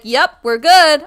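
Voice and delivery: loud, slow group reply; crowd yelling back. Retold or imitated. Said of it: "I gotta yell back".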